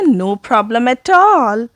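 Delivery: slow model phrase. Shown as a demonstration. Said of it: "हम ऐसे भी कह सकते हैं".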